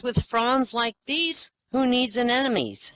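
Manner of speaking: high and very slow, savoring the pun; delighted wife. Acted. Delighted wife thanking husband for the fern, slow and high. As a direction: draw out the pun like a thrilled wife.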